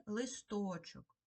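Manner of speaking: листочок slowly with a long stressed middle О. Shown as a demonstration. Teacher posing a word to check, листочок stressed on О. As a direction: stretch the О in листочок. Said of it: "Перевірне слово".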